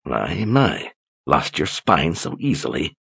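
soft, quiet mockery; mocking. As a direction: sneer it quietly. Mocking captor.

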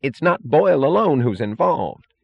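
pleading, high and pressed; Holloway. A narrator's reading. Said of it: "said Holloway pleadingly".

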